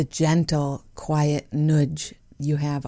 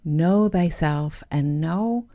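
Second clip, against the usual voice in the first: biblical voice. Acted. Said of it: "Why am I talking, like, biblical?".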